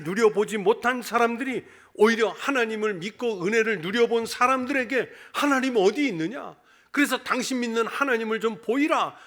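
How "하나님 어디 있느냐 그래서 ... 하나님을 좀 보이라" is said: imitated scoffer, pitched higher; mocking challenge. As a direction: lightly mimic an unbeliever's taunting demand. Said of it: "그러면서 조롱을 해요". (조롱하며 따지는 흉내)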